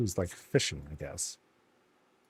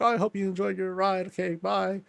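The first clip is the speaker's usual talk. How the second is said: higher, fast mock-cheery voice; sweet gnome farewell; 8 semitones higher than usual. Gnome dismissing riders, higher and fast. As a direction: chirp it out brightly. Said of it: "it's like".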